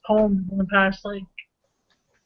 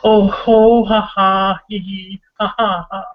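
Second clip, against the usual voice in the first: hearty laugh; 4 dB louder, slower than usual. Acted. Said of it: "good old laughter of any kind".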